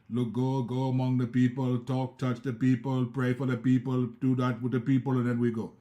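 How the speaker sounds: imitating the Indian pastors' accent; light put-on Indian English. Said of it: "that's a pretty good accent".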